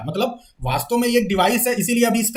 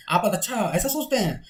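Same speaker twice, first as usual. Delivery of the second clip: a soft muttered aside to yourself; mumbled aside; 5 dB quieter than usual. Shown as a demonstration. Teacher demonstrating an aside, mumbling softly. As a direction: mutter it under your breath. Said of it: "तो हम थोड़ा सा बड़बड़ा देते हैं".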